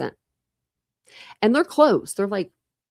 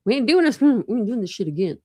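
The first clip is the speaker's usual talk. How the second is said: emphatic refusal; 2 semitones higher than usual. Real, not acted. Vlogger refusing surgery again, laughing and firm. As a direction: shut it down with a laugh. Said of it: "refusing more surgery".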